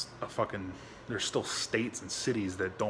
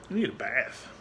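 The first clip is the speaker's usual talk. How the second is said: pet talk at a near-usual pitch; talking to the dog. Real, not acted. Owner telling the dog about a bath, mild pet-talk voice. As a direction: tell the dog, lightly cooing.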